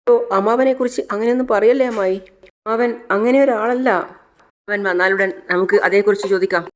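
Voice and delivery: put-on a girl rushing in, calling out in worry; young niece. Megha voiced in the story.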